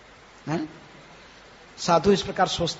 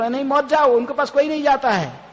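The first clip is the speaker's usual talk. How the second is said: crowd warning; 5 semitones higher, 5 dB louder than usual. Retold or imitated. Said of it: "सब लोग".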